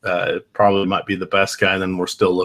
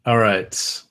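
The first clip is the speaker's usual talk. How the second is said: laggy slow motion. Real, not acted. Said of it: "like a slow motion, like, lag talk".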